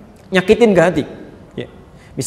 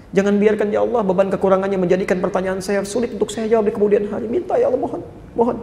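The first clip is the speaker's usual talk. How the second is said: soft, pleading prayer; gentle prayer; 3 semitones higher, 3 dB quieter than usual. Shown as a demonstration. Preacher models how a mother should pray for her child, soft and pleading. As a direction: pray tenderly, as if begging quietly. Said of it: "mohonkan dengan lembut".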